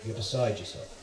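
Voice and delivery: lightly voiced calm posh English accent; reply calmly in a hint of posh English. Posh host calming a freaking-out Australian, calm posh English. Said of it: "He has that posh English accent".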